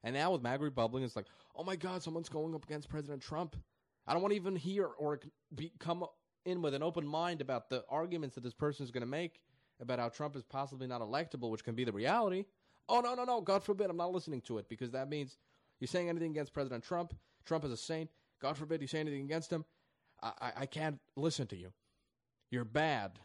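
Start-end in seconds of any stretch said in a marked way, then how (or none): 1.5-12.5 high, loud, panicky parody; mock hysterical supporter. Commentator mocking maga Republicans, high hysterical parody. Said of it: "And I'm getting all emotional". 12.9-13.4 high, loud shriek of no; mock frantic no. Commentator parodying a panicked fan, loud high squeal. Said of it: "getting all emotional". 13.4-23.2 high, loud, panicky parody; mock hysterical supporter. Commentator mocking maga Republicans, high hysterical parody. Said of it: "And I'm getting all emotional".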